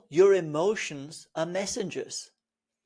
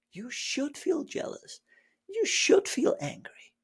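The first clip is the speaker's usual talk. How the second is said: much higher, soaring insistence; emphatic permission; 9 semitones higher, 3 dB quieter than usual. Real, not acted. Teacher overturning the rule, high insistent.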